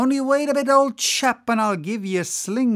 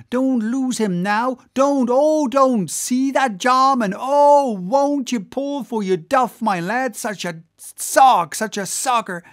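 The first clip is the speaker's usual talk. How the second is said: loud, high, breathless-paced pleading with the rowers; frantic excited cries; 7 semitones higher, 7 dB louder than usual. Acted. Whaler to his lads as a fortune swims off, frantic excited cries. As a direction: beg them to pull, hopping with excitement. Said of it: "cried Flask, dancing up and down".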